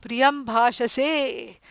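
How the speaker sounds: slow, drawn-out loving words; tenderly recited, very slow; lovingly. Retold or imitated. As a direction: stretch the words out fondly. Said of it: "very lovingly he says".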